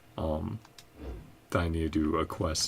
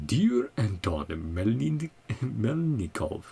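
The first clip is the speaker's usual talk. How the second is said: slow, higher attempt at a Russian accent; Snezhnayan Russian accent; 4 semitones higher, much slower than usual. Player starting a letter to Anton, put-on Russian accent. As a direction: stretch the names out in a mock Russian accent. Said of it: "get into Snezhnaya".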